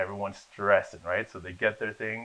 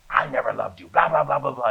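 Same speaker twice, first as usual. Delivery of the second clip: retold angry outburst, louder on the blahs; laying into him; 3 semitones higher, 6 dB louder than usual. Acting teacher as ex-girlfriend lays into student, retold angry tirade. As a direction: mimic a mildly heated tirade. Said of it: "he just started laying into me".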